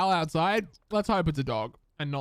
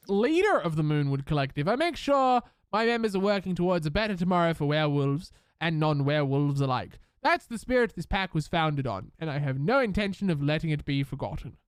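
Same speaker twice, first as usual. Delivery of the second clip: put-on a light posh British accent for the pack leader; lightly posh British leader giving a proud speech. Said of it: "Why did I do that in, like, a posh accent?".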